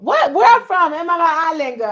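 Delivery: high, loud, mock-shocked question; hammed-up disbelief; mock surprise. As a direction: act offended by the question.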